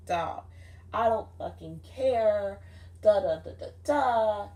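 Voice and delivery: mock yelling. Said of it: "I'm yelling at her".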